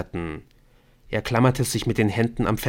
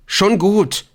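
high, loud cry of surrender; shouting, pitch shooting up; panicked yell; 11 semitones higher, 8 dB louder than usual. A narrator's reading. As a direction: yell that you give in. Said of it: "brüllte Ortolan".

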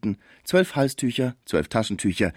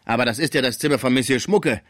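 higher, mildly raised protest; Ausruf der Sauvage; 5 semitones higher, 3 dB louder than usual. A narrator's reading. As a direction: call out in objection. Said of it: "rief die Sauvage". (gemäßigter empörter Zuruf)

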